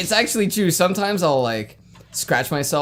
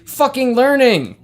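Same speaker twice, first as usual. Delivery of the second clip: emphatic punchline; 7 semitones higher, 6 dB louder, slower than usual. Real, not acted. Punchline shout.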